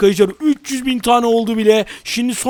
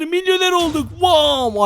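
triumphant shout; 7 semitones higher, slower than usual. Real, not acted. Celebrating becoming a millionaire.

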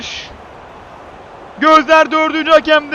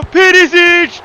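screaming football commentator; 2 semitones higher, 5 dB louder, much slower than usual. Real, not acted. Penalty kick taken.

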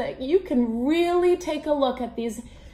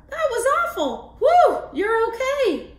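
character voice; 10 semitones higher, 5 dB louder than usual. Acted. Fish characters chatter.

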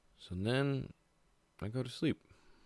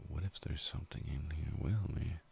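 scared whisper; 5 dB quieter than usual. Retold or imitated. Scared in the dark cabin.

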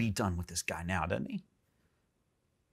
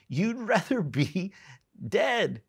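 high, slow incredulous echo; mock disbelief; 7 semitones higher, slower than usual. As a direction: draw it out high, as if you can't believe it. Mock disbelief at Jonah's wish.

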